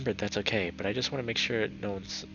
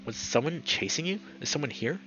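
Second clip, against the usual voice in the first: higher, careful questioning; gentle prodding; 6 semitones higher than usual. A narrator's reading. Leo questioning shaken T J, gently prodding. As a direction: coax an answer out gently. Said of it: "gently trying to tell T J".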